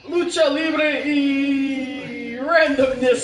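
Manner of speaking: slow, drawn-out announcer call; Spanish announcer voice. Acted. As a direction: stretch it like a ring announcer. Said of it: "I just had to do my Spanish voice".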